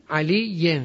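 "علیٍ" separated, ending in -yen; "علیٍ" as ali-yen, settling at the end; genitive ending. Shown as a demonstration. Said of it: "مررت بعلیٍ".

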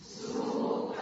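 سو breathed without voice; voiceless سو for the class; whispered demo. Shown as a demonstration. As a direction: whisper سو softly. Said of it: "بگید".

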